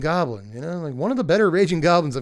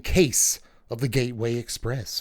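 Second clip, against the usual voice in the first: podcast intro voice; 4 semitones lower than usual. Shown as a demonstration. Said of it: "I don't know why I say all the cases that way".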